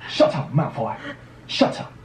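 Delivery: lightly mimicked British schoolboy; Harry Potter, British accent. Shown as a demonstration. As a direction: play at a British film line. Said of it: "Harry Potter".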